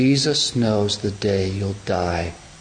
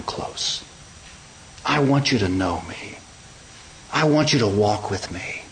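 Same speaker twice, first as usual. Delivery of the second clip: tender invitation. Acted. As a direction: speak as if coaxing someone near. Jesus speaks tenderly, inviting closeness.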